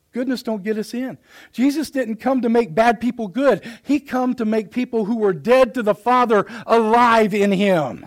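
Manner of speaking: rising-energy sermon delivery; emphatic preaching. Real, not acted. Preacher telling congregation goodness doesn't save, emphatic preaching. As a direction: press the point home with conviction.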